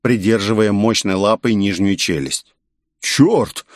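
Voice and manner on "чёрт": higher, panicked yell. A narrator's reading. Young fighter seeing the monster talk, higher panicked yell. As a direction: shout it out in alarm. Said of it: "завопил Рё".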